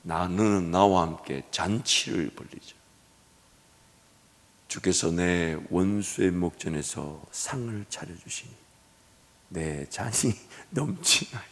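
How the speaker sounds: unhurried soft divine voice; calm voice of God. Retold or imitated. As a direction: settle it down, slow and kind. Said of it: "우리 하나님이 하시는 말씀이".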